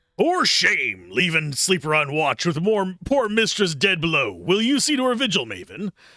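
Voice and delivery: high-pitched, loud talking dog voice. Voicing the dog, who scolds the others for leaving a sleeper on watch: talking dog voice. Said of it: "again the dog speaks".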